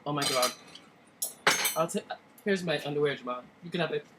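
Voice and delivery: a hint of Dre's overwhelmed reaction; just a touch of Dre, low-key awed; lightly voiced Dre. Tasting the Kool-Aid, lightly doing Dre's awed reaction. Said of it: "my Dre impression".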